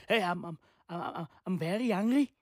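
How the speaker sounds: soft, low attempt at an Irish accent; bad Irish accent. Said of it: "Is that how they talk?".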